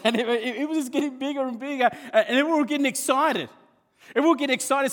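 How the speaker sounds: laughing excitement. Real, not acted. Preacher laughing while describing the basket filling up. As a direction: let the laugh ride the words.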